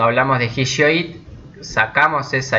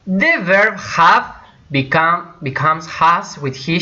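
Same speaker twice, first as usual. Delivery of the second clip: slow, higher, spaced-out words; deliberate teacher announcement; slow emphatic rule; 4 semitones higher, slower than usual. Shown as a demonstration. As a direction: make the exception stand out. Teacher stresses the exception.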